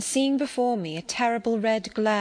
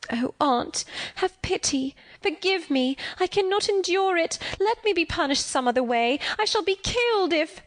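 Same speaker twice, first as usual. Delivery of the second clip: desperate begging; 9 semitones higher than usual. Acted. Child begs aunt not be locked.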